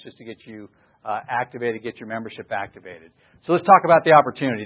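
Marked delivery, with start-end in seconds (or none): 3.4-4.6 louder, higher and faster, excited; real excitement, voice up. Real, not acted. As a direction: launch into the exciting part, voice jumping up. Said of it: "Obviously, my voice went up".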